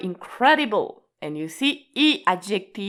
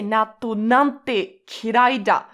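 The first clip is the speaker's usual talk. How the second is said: disgusted. Shown as a demonstration. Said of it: "we really feel that you hate natto".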